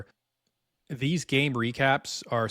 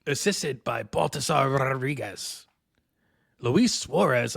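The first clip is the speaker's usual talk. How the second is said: thespian voice. Acted. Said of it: "my thespian voice".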